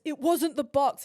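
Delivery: angry delivery man denying blame; mock angry insist. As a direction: throw it back at her hard. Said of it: "He gets so mad at me".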